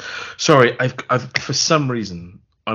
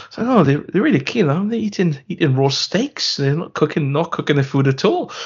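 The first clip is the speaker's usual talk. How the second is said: higher-pitched, troubled video-log voice; mock panicked captain; 6 semitones higher than usual. Captain confiding to his video log about the crew, mock alarmed. Acting the captain's increasingly unhinged vlog.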